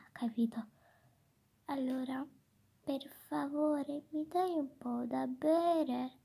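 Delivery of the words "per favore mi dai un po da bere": slow, gentle polite asking; said sweetly. Pretend. Child asks teacher gently for a drink, slow and sweet. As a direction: ask nicely so they'll give it. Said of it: "devi dire dolcemente".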